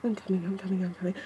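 loud, panting outcry; loud breathless cries. Real, not acted.

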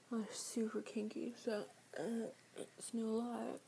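soft unvoiced whisper. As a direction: whisper it like a secret. Confiding a secret.

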